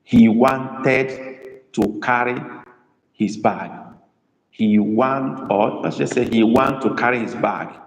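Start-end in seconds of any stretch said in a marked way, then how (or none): 0.0-3.7 slow dictation. Shown as a demonstration. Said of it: "Now let's have our sentence".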